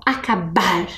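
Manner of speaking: "acabar" with the stress pushed onto "bar"; "acabar", lingering a little on the final "bar"; stressed syllable. Shown as a demonstration. Teacher asking pupils to listen for the strong syllable. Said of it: "Presta atenção".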